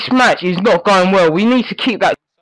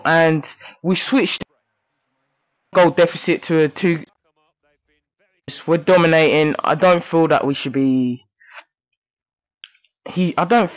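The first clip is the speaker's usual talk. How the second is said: subdued mumble; 6 semitones lower, 5 dB quieter than usual. Real, not acted. Muttering relief at half time.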